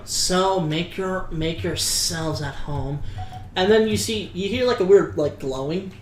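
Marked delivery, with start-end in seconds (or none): 0.1-3.0 slow, soft welcoming host. Acted. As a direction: invite them in, slow and hushed. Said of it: "he tells you".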